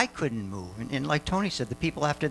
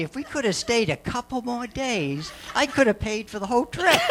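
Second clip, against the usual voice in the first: laughing joke; 10 semitones higher than usual. Real, not acted. Joking to Tony while laughing.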